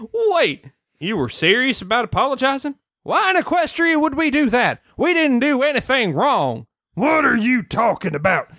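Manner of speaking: feuding ponies. Acted. Acted quarrel between feuding families.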